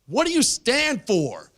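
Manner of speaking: high, drawn-out mock yell; retold yell. Comic calling to the honking trucker, mock yell. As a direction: call out slowly as if over honking. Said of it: "I just yelled".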